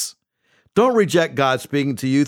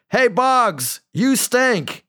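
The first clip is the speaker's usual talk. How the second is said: mock yell; 7 semitones higher, much slower than usual. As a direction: imitate a fan yelling from the stands, without full volume. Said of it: "in his typical routine yelling".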